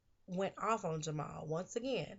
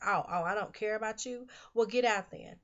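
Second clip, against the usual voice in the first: a louder, heated retelling of the kick-out; retold angry outburst; 2 semitones higher, 6 dB louder than usual. Friend retells Cookie throwing Carol out, mock angry. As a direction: fire back at her friend and throw her out. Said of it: "Cookie just went clean off".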